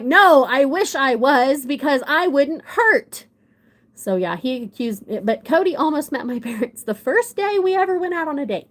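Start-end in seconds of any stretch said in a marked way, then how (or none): 0.0-3.3 sarcastic reply. Retold or imitated. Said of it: "And I'm like".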